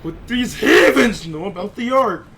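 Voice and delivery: mimicking villain line. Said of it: "mimics Truth's line slowly".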